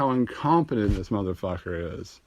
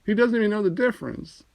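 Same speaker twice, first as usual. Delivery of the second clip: incredulous shout; 9 semitones higher, 3 dB louder than usual. Retold or imitated. Comedian mocking a misspelled transcript, incredulous high-pitched shout. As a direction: yell in disbelief at the transcript. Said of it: "I'm like".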